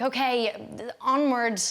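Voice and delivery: urging a stubborn horse with lightly put-on royal command; queenly and regal. Actress urging her horse on set, mock regal command. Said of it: "having to act quite queenly and regal".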